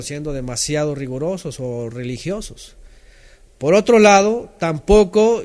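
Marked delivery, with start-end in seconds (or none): 3.6-5.4 emphatic turn. Real, not acted. Turning point in sermon.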